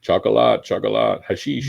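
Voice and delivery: put-on high, sing-song calls from local kids; mock children's chant, pitched high and loud; kids begging. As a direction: call out chocolate like an eager child. Kids calling for chocolate.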